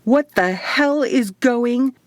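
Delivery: high, slow, alarmed outburst; cut-off shout. A narrator's reading. Woman shouts in the tunnel pile-up before a hand covers her mouth. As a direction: start yelling, then get cut off. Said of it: "I began to shout".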